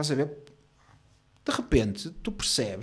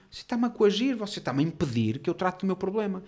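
indignant protest; 5 semitones higher than usual. Retold or imitated. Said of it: "E o gajo ficou assim".

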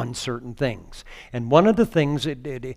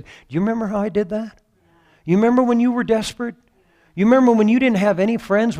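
high, loud, fast voice of God reminding you; urgent divine reminder, building fast; 6 semitones higher, 4 dB louder than usual. Acted. Preacher voicing God to the congregation, high and urgent.

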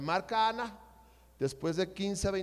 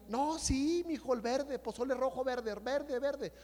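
imitated mother; 3 semitones higher, 5 dB quieter than usual. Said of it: "mi mamá no sé qué le dijo".

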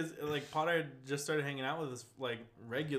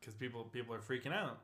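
whisper. Real, not acted. Repeats line whispered then plain.

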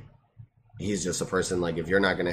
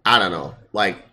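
frat bro; 11 semitones higher, 9 dB louder than usual. Acted. Bro voice mocking Kinemon.

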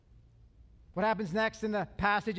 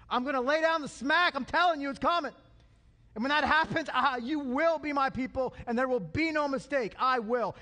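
God laying down the law; 5 semitones higher than usual. Acted. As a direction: boom out God's promise like a threat. Preacher voices God's promise.

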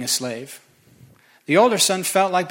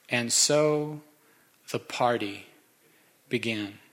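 slow, fading, savored delivery; savoring the line; 4 semitones lower, 4 dB quieter, slower than usual. Shown as a demonstration. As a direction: let the words linger and fade softly. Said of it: "It's my favorite verse".

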